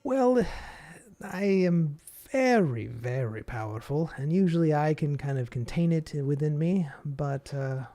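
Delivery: a hint of a powerful demon; booming Demon Lord. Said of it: "the Demon Lord voice".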